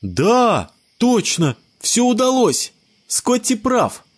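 put-on high boy's voice, agreeing happily; a boy cheering up, high; relieved child. A narrator's reading. Bruce agrees with Scott, high child voice. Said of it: "Брюс успокоился".

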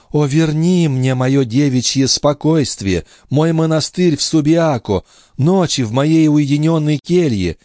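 put-on young wife pleading with her husband. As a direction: beg him for love. Lorenza's long pleading.

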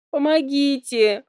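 high, slow plea for help; pleading. A narrator's reading. Heroine begs the royal parents for help, pleading. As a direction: beg the parents desperately. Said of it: "взмолилась я".

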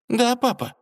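high, curt reply again; curt princess. Acted. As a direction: brush him off tersely. Дочь отмахивается от отца. (коротко, отстранённо)

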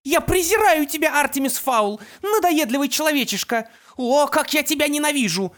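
high, loud screech of hatred; screeching with rage. A narrator's reading. Mother screeches hatred at her son, high and loud. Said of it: "завизжала от злости".

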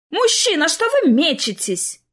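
annoyed bystander crying out. Acted. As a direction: call out at a man rushing around. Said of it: "невольно вскрикивали люди".

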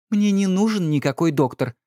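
a hint of an irritated wife; Lady Laura. A narrator's reading. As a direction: brush it off as the weary wife.

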